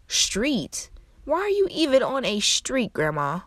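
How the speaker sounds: high, disbelieving "Street?"; can't believe grandma took a street; incredulous surprise. Retold or imitated. Granddaughter on the phone to lost grandma, incredulous.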